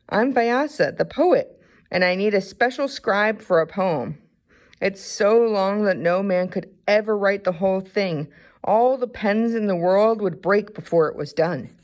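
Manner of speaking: old poet explaining his task, lightly voiced; old poet asking a scribe for help, gently voiced. Old poet Vyasa speaks.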